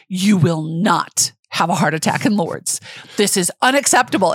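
indignant scolding, rising at the end; retold anger, firm. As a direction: lay down the law, acting mad. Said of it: "I got mad. I looked at you and I'm like".

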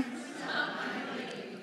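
breathy whisper, slow, laughing; whispered to yourself. Shown as a demonstration. Pastor has the crowd whisper the title to themselves, whispering. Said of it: "say it to yourself".

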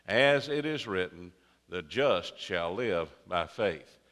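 measured, formal reading of the Bible; scripture reading. Acted. Preacher reads Romans aloud to congregation, formal and measured. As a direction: read the verses with solemn weight.

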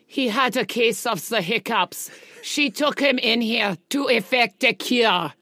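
put-on comic German-accented character voice. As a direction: read it in a deliberate German accent. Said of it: "go back to my German accent".

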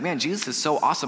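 casual praise. Pretend. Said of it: "you could be like".

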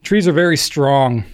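slow, deliberate "Trees are very strong"; mock-earnest reading; read-out quote. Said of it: "Jace thirty-six oh four says".

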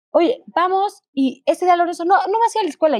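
mother to son Lorenzo, excitedly proposing a day off; upbeat to her son. Retold or imitated. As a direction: sell the day off to your little boy. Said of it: "y así se lo explico".

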